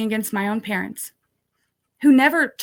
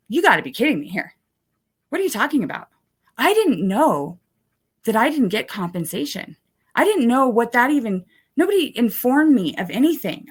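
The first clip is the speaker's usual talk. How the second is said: mild retold rant, rising and pushing; exasperated venting at the advocate; 4 semitones higher than usual. Retelling her rant at the victim advocate, mildly exasperated. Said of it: "you can kinda see where I start kinda ranting on her".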